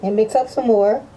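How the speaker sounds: muffled behind a respirator mask; talking through a face mask. Real, not acted. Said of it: "hopefully you can hear me with my mask on".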